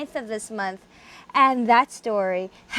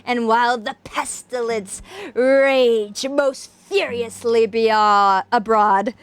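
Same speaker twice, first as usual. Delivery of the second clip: dramatic reading. A narrator's reading. Reading Poe aloud to viewers in isolation, dramatic narration. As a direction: read it like a gothic tale by candlelight. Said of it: "we shall commence with a dramatic reading".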